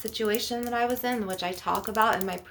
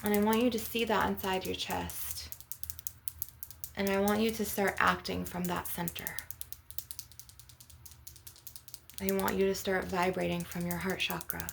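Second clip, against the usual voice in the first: guided meditation; 3 dB quieter than usual. Real, not acted. Healer leading listeners through a heart chakra visualization, guided meditation. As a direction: guide them gently into the image, unhurried.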